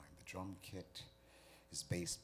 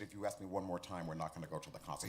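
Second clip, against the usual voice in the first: exasperated mom; 4 dB louder, faster than usual. Acted. Mom loses patience with son.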